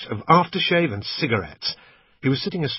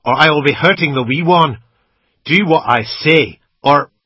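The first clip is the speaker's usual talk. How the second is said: menacing threat; 5 semitones higher, 10 dB louder than usual. A narrator's reading. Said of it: "he said".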